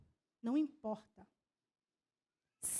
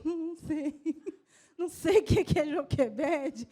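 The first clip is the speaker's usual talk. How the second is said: laughing; slower than usual. Real, not acted.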